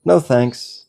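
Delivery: light, easy no thanks; gently declining. Pretend. Declining the mind's invitation to anger, gently. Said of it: "you will very gently just say".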